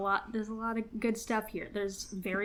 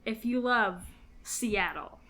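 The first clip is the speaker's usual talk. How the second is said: sleazy salesman. Pretend. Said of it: "can you please do this in a real estate voice".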